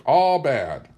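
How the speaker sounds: lightly voiced high old woman; old tribeswoman. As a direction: scold the picnic in a mild old woman voice. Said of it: "she included the entire picnic".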